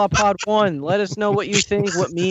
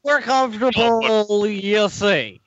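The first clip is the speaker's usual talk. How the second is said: Bill Cosby impression; slower than usual. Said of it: "I started to sound like Bill Cosby".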